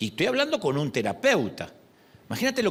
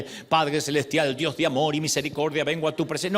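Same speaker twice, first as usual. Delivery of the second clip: mock formal prayer. Shown as a demonstration. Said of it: "evita el".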